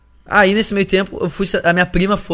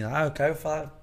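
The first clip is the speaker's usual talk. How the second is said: put-on drunk girl; 8 dB quieter than usual. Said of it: "bem bêbada assim".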